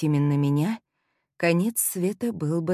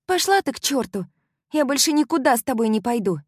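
higher, louder, fast angry yell; angry outburst; 9 semitones higher, 5 dB louder than usual. Acted. Molly yells at her friend after being startled, angry.

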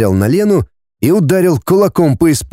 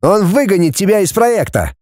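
hard, raised threat; harsh; 7 semitones higher than usual. A narrator's reading. Denis threatening Lena, harsh. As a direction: lay it down without mercy. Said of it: "Деня сказал жёстко".

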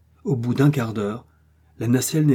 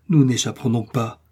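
understated anger, slightly raised; mild rage; 4 dB louder than usual. Acted. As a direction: say it with a touch of rage. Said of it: "fit Kennedy avec rage". (rage contenue, peu appuyée)

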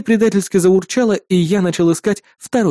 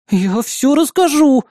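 higher, slow snorting threat; huffy threat; 9 semitones higher, slower than usual. Acted. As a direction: drag out the threat. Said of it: "фыркнула соседка". (протяжная обиженная угроза)

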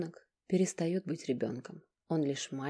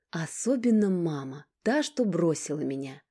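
bitter reproach; 2 semitones higher, 5 dB louder than usual. Acted.

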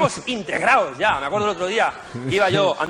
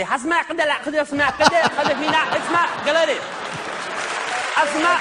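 much higher, hammed-up vendor hawking; street vendor voice; 10 semitones higher than usual. Comedian voicing the street vendor he asked for directions, higher hammed-up vendor voice. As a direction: squeak it out like a pushy street seller.

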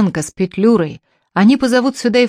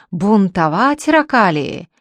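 a louder barked yell, stress on ракалии; barking shout; 3 dB louder, slower than usual. Acted. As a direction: bellt laut heraus. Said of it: "новым лающим голосом закричал".

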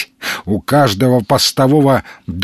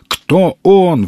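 higher, louder startled question; exclaiming; 6 semitones higher, 3 dB louder than usual. A narrator's reading. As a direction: blurt it out in surprise. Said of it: "воскликнул Калантай".

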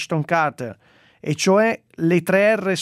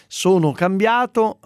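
slow, louder mocking echo; mocking repeat; 4 semitones higher, 4 dB louder, slower than usual. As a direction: drag it out, mocking. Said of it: "l'ha detto quattromila volte".

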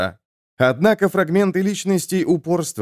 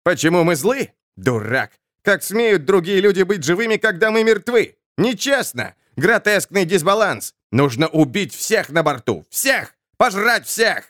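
higher, rising hunger for blood; furious undead soul; 5 semitones higher than usual. Acted. Undead soul raging against the living crew, rising fury. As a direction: whip the others into a killing frenzy.

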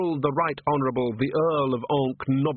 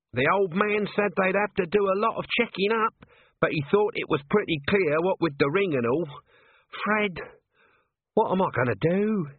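higher, aggrieved little man; lightly voiced self-pitying corporal; 8 semitones higher than usual. Nobby complaining to Colon about his lot, higher and aggrieved. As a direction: feel hard done by, a touch higher.

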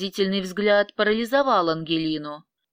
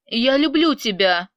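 fairly loud, insistent I love you; loud declaration; 3 semitones higher, 4 dB louder than usual. Acted. Vyacheslav loudly declaring love to Angelina. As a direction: say it loudly and firmly. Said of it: "громким голосом сказал Вячеслав".

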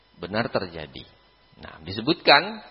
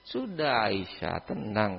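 calming; 2 semitones lower, 7 dB quieter, slower than usual. Retold or imitated. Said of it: "kata Rasul".

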